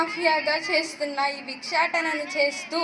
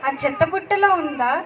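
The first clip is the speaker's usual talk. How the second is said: put-on shocked and tearful over an abandoned baby; a woman's voice cracking with tears, calling out in distress; distressed crying. (ఏడుపు గొంతుతో ఆవేదన)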